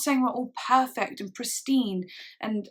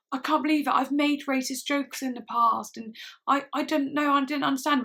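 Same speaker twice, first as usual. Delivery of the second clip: higher, mildly mock-distraught voice; imitated tearful apology; 4 semitones higher than usual. White people confessing at the rally, imitating tearful apology. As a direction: lightly imitate someone crying through a confession. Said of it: "they're crying and they're going".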